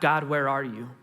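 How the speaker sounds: restrained mock cry to God; mild retold shout. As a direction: raise the voice only slightly. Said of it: "when we shout out".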